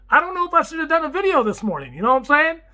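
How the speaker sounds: loud, high, animated wrap-up; excited sign-off. Real, not acted. Signing off to viewers, tired but wound up: loud excited. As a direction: hype up the close.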